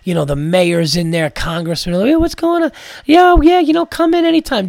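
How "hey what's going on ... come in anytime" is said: much higher, louder glad-handing voice; slick politician greeting. Retold or imitated. Comic imitating the tanned owner greeting the New York comedians like a slick politician. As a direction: greet everyone like a smooth politician. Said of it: "Just so political".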